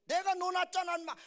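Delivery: high-pitched, very loud angry protest; mock furious father. Father argues with his son, loud acted fury. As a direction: shout like an outraged dad. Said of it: "아빠가 이제 진짜 화났어요".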